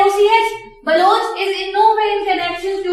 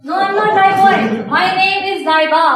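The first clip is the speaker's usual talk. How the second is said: louder, insistent correction; indignant correction; 2 semitones higher, 5 dB louder than usual. Retold or imitated. Telling classmates her real name, a louder insistent correction. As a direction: set them straight, firmly. Protesting a mocking nickname.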